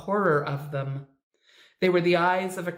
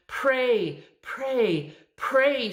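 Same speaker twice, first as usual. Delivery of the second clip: high, shrill repeated command; 5 semitones higher, much slower than usual. A narrator's reading. Dying Naomi begs the minister to pray, shrilling. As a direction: shriek the word at him. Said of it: "she shrilled".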